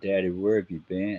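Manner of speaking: put-on crying, sobbing child voice. Retelling finding a lost son who came up crying: imitating a crying child. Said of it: "he's crying".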